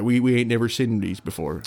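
put-on Stoke accent with a Cornish tinge; weird Stoke accent. Imitating fascinated Stoke locals staring at strangers, weird Stoke accent. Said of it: "That's a weird Stoke accent".

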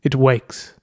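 put-on a stranger speaking in a heavy Japanese accent. A narrator's reading. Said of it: "In a thick Japanese accent came Doyobi's voice".

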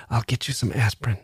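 soft whisper. A narrator's reading. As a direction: keep it hushed and soft. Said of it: "whispered Adam".

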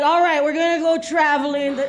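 fussy planner in a mock Jewish accent. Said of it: "That's my Jewish accent".

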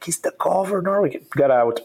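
mock-haughty get out; indignant brush-off. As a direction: shoo him away, offended. Zen master refusing the governor.

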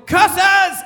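loud, high cartoon-villain cry; mock yell. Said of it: "and just yelled".

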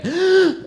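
sharp high intake before a scream; mock kid's gasp before screaming; mock toddler gasp. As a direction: imitate a toddler winding up to scream. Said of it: "started to do that screaming that kids sometimes do".

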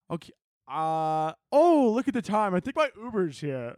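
imitating a date bailing awkwardly; lightly acted uneasy getaway; awkward excuse. Date making excuse to escape.

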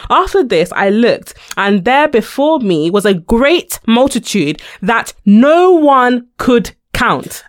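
dramatic scripture reading. Acted. Reading Revelation aloud to the cohost, slow and weighty. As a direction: read the verse like it matters.

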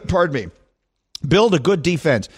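coughing through the words; something went down the wrong way; choking on a drink. Real, not acted. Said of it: "something went down the wrong way".

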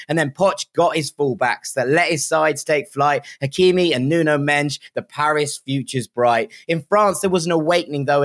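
rhythmic rhyming verse read aloud with a lilt; measured rhyming delivery, leaning into each rhyme; poem recitation. Acted. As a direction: recite it like a proud football poem.

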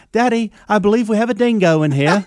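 high, put-on British-Australian mix accent; a girl playing posh with a British-Australian lilt; mock British-Australian accent. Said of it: "foreign accent, like a U K or an Australian mix accent".

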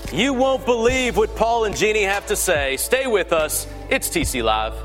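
punchy promo read over music; tabloid tv host. Acted. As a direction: hype up the next segment like a TV host. Promo tease over show music.

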